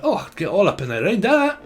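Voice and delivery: lightly voiced Scottish brogue; a hint of a Scottish cheer; Scottish accent. Repeating the Scottish spirit's words, light Scottish accent. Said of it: "So you got a Scottish person here".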